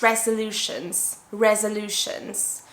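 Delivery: "resolutions" pronounced clearly with a schwa in the middle; careful pronunciation. Shown as a demonstration. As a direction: say "resolutions" as a careful model, REZ-uh-LOO-shunz. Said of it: "how to pronounce the word".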